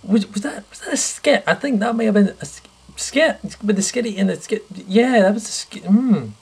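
high, squeaky suspicious voice; high mock-suspicious squeak; suspicious questioning. Suspicious about the skit.

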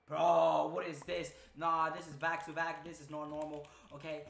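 loud, disbelieving "Bro, what is this?"; retelling his shocked thoughts, loud; loud retold reaction. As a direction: blurt it out in shock. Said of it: "and I'm like".

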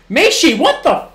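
high, loud burst of disbelief; real startled yell at the game; shocked shout. Real, not acted. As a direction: blurt it out stunned. Shock at a player's play.

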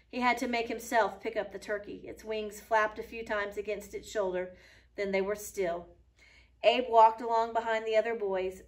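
steady read-aloud storytelling voice; story narration. A narrator's reading. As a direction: read the story to the class clearly. Teacher reads story to class.

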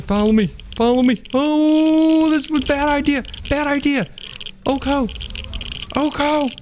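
very high, breathless pleading and yelping; frantic panic. Real, not acted. Player calling his tame to save him, squealing in panic. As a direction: beg the creature to come back, voice cracking high. Scrambling to remount while dying.

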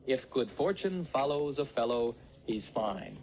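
"fortune follows a fellow" with TH for each f; "If", "fellow", "fine" with TH replacing f; TH for every F. Shown as a demonstration. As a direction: demonstrate the lipless f in "If" and "fine". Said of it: "E T H instead of F".

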